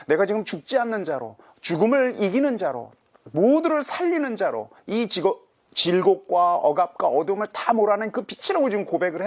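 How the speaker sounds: loud, high, driving sermon build; preaching at full force. Acted. Preacher proclaims Jesus as the light, in a loud rising sermon voice. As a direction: proclaim it to the whole church. Preacher voicing Peter's confession.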